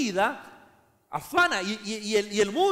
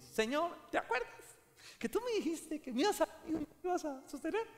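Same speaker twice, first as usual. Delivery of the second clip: pleading prayer; 8 semitones higher, 7 dB quieter than usual. Retold or imitated.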